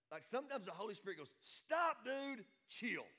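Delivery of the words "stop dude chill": high, punchy playful order; exclamatory command. Acted. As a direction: cut in loud on someone to calm down. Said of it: "I ain't sure he says it quite like that".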